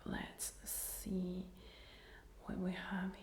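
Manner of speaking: ASMR whisper. Real, not acted. Whispers her whole ASMR reaction.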